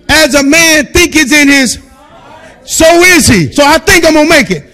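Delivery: preaching. Acted. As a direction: build the sermon toward the crowd.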